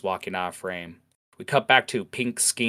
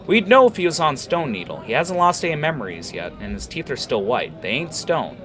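high, louder stern rebuke; reprimanding Heather; 8 semitones higher, 6 dB louder than usual. Acted. Heather reprimanding Jackal for accusing the orc, high and stern. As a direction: scold him, firm but fair. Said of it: "Heather reprimands".

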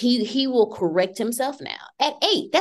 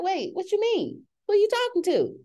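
much higher, indignant mock outrage; 9 semitones higher than usual. Mother hearing her son say bruh, high mock outrage. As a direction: rise up shocked at the cheek. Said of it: "I was like".

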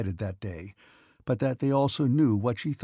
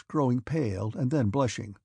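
usual speaking voice

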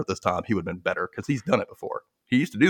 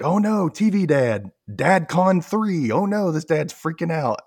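mock panic; 6 semitones higher, slower than usual. Mock panic about TV Dad.

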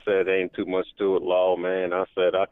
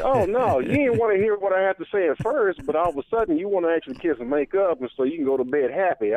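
higher-pitched impression of a scolding wife; mock wife; 8 semitones higher than usual. Caller imitating his wife scolding him at bedtime, higher and sharp. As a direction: play the irritated wife, pitched up. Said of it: "And she was like".

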